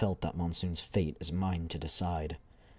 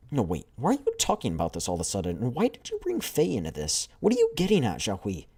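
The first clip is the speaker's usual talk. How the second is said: rising, pressing questions, a touch higher; worried squadmate; 5 semitones higher, 4 dB louder than usual. Acted. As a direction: push back, growing uneasy. Alarmed squadmate questions the leader.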